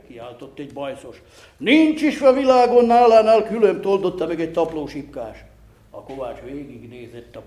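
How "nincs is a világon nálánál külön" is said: excited praise. A narrator's reading. Onlooker praising the smith.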